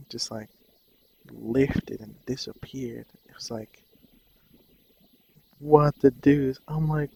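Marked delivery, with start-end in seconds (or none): 5.6-6.6 slow, louder, baffled exclamation; stunned disbelief. Retold or imitated. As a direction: drag it out in amazement. Retelling his shock at anger vanishing.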